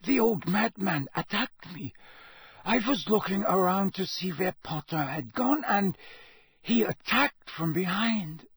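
dazed Krum. A narrator's reading. Krum telling Dumbledore he was attacked, dazed accented voice. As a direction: raise the pitch, put on Krum's accent. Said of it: "Krum muttered".

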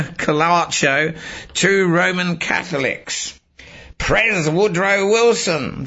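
memo-style roll call, each name set out then its verdict; list read-out. Acted. Reading a list of assassins and their faith, deliberate recital.

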